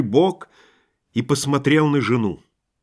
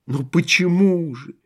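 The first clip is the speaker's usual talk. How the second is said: bovine passion; 5 semitones higher than usual. A narrator's reading. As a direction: wail it like a lovesick cow. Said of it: "с коровьей страстностью".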